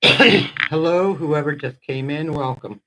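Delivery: breathless greeting; out of breath. Real, not acted. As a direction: speak between short breaths. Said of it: "I'm a little out of breath here".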